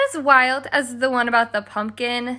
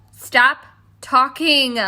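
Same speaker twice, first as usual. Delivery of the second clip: stern command; 5 dB louder, slower than usual. Acted. Stepmother silencing chatty Cindy.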